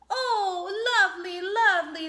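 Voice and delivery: high, quick, delighted squeak; little mice squeaking with joy; squeaky mice. A narrator's reading. Field mice thank the hedgehog, high squeaky delight. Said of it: "they squeaked".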